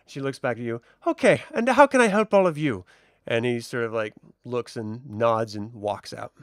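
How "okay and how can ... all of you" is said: high, brisk question; seamstress. Acted. Seamstress turning to the adventurers, raised and brisk. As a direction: switch cheerfully to the party.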